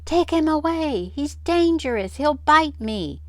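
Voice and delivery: high, loud frightened squeal; terrified high squeal, pleading; squealing in fear. Acted. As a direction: squeal it, cowering from the dog.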